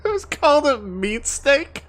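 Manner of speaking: high question bursting with laughter; real giggling incredulity; amused disbelief. Real, not acted. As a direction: ask it while cracking up. Laughs at the creature's name.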